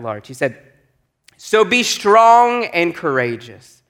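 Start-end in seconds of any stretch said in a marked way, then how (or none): 1.4-3.8 raised, slow proclamation; slow, ringing charge to the people; emphatic scripture reading. A narrator's reading. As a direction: proclaim it slowly with weight on "strong".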